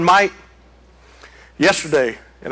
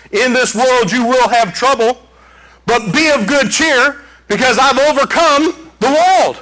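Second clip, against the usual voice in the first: proclaimed quote; 6 semitones higher than usual. Shown as a demonstration. Preacher quoting Jesus to congregation, raised proclamation. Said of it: "That's a quote from Jesus Christ".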